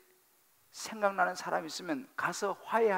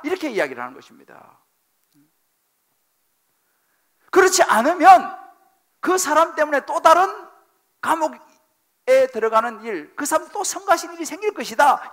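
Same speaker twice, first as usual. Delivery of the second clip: preaching at full force; 9 semitones higher, 12 dB louder than usual. Acted. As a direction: plead and command at once. Preaching command to reconcile.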